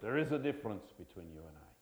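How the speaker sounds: put-on an amateur Scottish accent, hushed and low. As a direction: quote Braveheart in a homemade Scottish accent. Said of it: "I don't know how my Scottish accent will work today".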